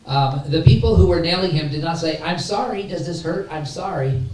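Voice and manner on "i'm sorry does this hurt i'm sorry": lightly acted, soft concerned apology; mock apology. Preacher imagines executioners apologizing to Jesus, mock concern. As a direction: softly pretend to be sorry.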